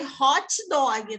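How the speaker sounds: hot dog kept in its English sounds, said slowly. Shown as a demonstration. Teacher showing Brazilians keep the English sound, slowly. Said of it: "a gente não muda nem a pronúncia".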